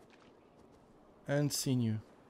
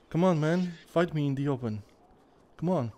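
taunting; 2 semitones higher, faster than usual. Real, not acted. Taunting a wild boar in fight.

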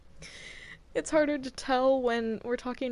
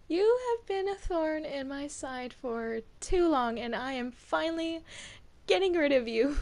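villain monologue; 2 semitones higher than usual. Acted. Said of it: "my monologue speech".

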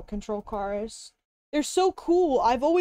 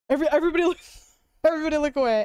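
louder, fast laughing urge; loud laughing plea; 2 semitones higher, 3 dB louder, much faster than usual. Real, not acted. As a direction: cry out through laughter. Laughing, urging chat.

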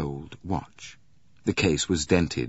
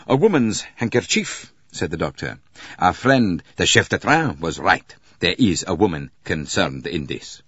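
a hint of an excited doctor, louder; lightly voiced excited doctor; 4 dB louder than usual. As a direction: play the doctor lightly, emphatic on the find. Doctor character in narrated story.

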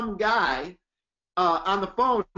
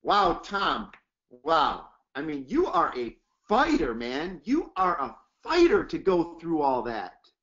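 admiring praise; 6 semitones lower than usual. Shown as a demonstration. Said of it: "get amped up".

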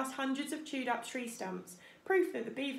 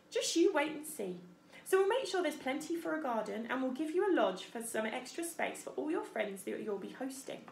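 higher, lively beaver character voice; animated beaver voice, pitched up; gruff beaver, warming up; 3 semitones higher than usual. Acted. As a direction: give chatty advice as a beaver builder. Story character voice, Mister Beaver.

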